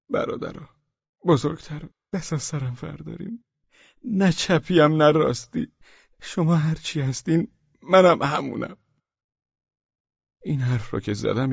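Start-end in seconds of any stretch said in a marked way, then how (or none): 0.1-8.8 tearful plea. Acted. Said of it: "گریه کنان گفتم".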